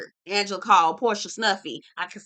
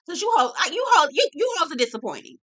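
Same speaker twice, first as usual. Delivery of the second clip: exasperated outburst; 6 semitones higher, faster than usual. Real, not acted. Exasperated outburst, cry heard.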